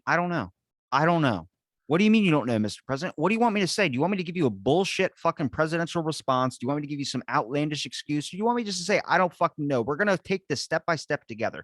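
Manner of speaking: a president's answer, pitched a bit high; a hint of a cornered leader; mock president at a press briefing. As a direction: play an exasperated president shrugging off reporters.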